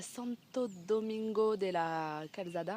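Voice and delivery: slow Spanish-style place name, French accent; to her viewers, naming the next town in slow Spanish-accented French; Spanish place name, own accent. Real, not acted. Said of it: "il y a plein de gens qui me reprennent sur mon accent".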